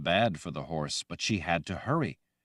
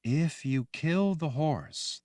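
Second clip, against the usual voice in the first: soft, gentle voice; 9 semitones higher, slower than usual. Acted. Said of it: "in a soft, gentle voice".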